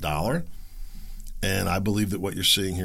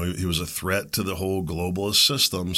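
ordinary talk

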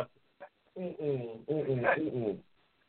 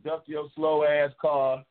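slogan shout; 6 dB louder, much slower than usual. Acted. Shouting his racing slogan.

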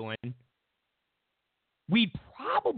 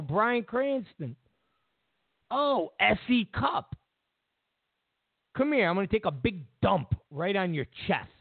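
mock taunting; 3 semitones higher than usual. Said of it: "and go".

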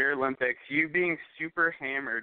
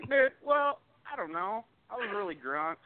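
mocking friend; 7 semitones higher than usual. Friend mocks his excuse.

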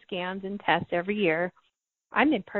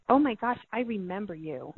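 hushed, a touch of retold tears on "I remember you"; tearful recognition. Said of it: "I started crying, going".

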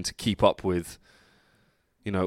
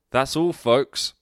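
cartoon sign-off; 4 semitones higher, 5 dB louder, slower than usual.

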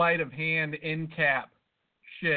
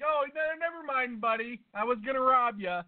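higher-pitched imitation of a would-be robber; mock robber; 7 semitones higher than usual. Storyteller imagines a robber admitting his plan, mock robber voice. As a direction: play a robber casually calling it off, pitched up. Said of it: "if a guy's gonna rob me, he's like".

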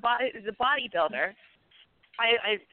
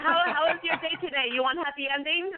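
mock Asian accent; 6 semitones higher than usual. Mocking the Asian boss.

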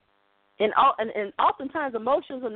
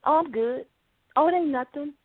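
lightly voiced spouse waving off concern; casual mock "I'm fine"; a hint of a wife hiding her mood, breezy; brushing it off; 2 semitones higher than usual. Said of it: "when you're talking to your spouse".

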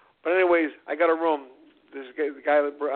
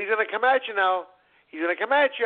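urgent coaching; 5 semitones higher than usual. Retold or imitated. Cornerman urging fighter in retold bout.

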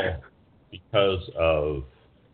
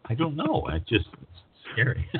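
ordinary delivery

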